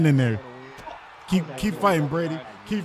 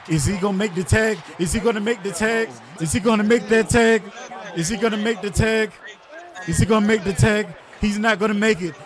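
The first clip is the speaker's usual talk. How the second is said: higher, keyed up and repeating; tense excitement; 6 semitones higher than usual. Real, not acted. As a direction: build the suspense. Suspense over the tag.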